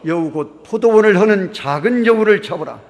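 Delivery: '포도원을' read out loudly and deliberately with the congregation. Shown as a demonstration. Pastor leading the congregation in reading the verse, loud and deliberate. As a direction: read it aloud with the whole church. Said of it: "시작".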